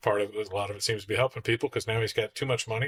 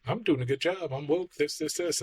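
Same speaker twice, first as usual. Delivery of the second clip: mock proud, pitched up, rattling off; smug self-praise; 5 semitones higher than usual. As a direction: play the self-satisfied boss listing his virtues. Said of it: "you're like".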